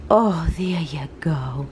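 whispered and slow, gently coaxing. Real, not acted. Owner whispering to her dog over his cookie, hushed. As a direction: breathe it to the dog so he keeps eating.

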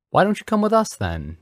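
high, loud, kindly invitation; kindly cry. A narrator's reading. Reverend invites the boy to dinner, crying kindly. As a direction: call out an invitation in a lifted voice. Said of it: "Dumbledore cried kindly".

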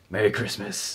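soft merry christmas. Acted. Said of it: "I look at my watch and I go".

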